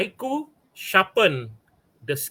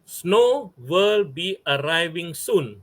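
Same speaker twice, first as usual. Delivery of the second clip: slow recital; slower than usual. Shown as a demonstration. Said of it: "Seven syllables".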